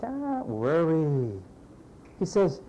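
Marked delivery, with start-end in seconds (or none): 0.0-1.3 calm reassurance. Acted. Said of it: "the man looks at his servant and he says".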